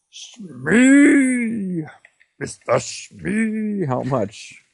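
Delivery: calling Smee. Pretend. Player calls out for Mister Smee like Captain Hook. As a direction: hail the first mate across the deck.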